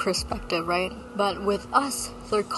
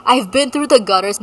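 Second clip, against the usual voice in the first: mock world-weary boast; 2 semitones higher, 9 dB louder than usual.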